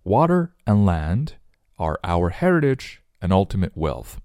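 pauses after "land" and "heritage"; frequent phrase breaks. Shown as a demonstration. Teacher reading a popular saying, broken into phrases. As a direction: break the saying into short separate groups. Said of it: "断句比较多".

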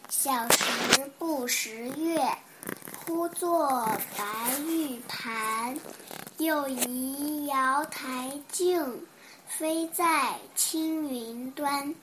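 slow, drawn-out recitation; slow emotional poem reading. Shown as a demonstration. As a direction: recite the poem slowly with feeling. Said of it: "我给大家朗诵一首诗".

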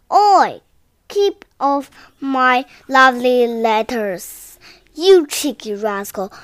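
loud scold. Acted. Grandpa scolds again.

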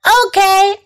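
high, drawn-out answering call; yelling back. A narrator's reading. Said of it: "I yelled back".

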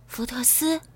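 softly. Acted. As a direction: say the name softly. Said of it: "他轻声说".

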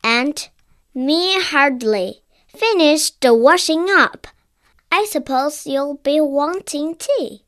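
lightly voiced brisk, bustling housekeeper; mildly flustered motherly housekeeper; fussy housekeeper. Mrs Bird voiced by narrator.

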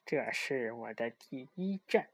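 squeezed through teeth, slow, soft; strangled voice. Acted. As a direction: hiss it through clenched teeth. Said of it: "从牙缝里挤出一句话".

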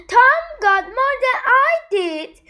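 high-pitched mock scream in narration; mild storybook scream of complaint. A narrator's reading. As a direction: read it as a screamed protest, pitch well up. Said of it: "screamed Jane".

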